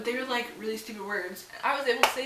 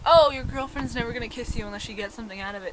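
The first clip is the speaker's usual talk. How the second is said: mocking teasing voice; 2 semitones higher, 7 dB louder, faster than usual. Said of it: "they were like".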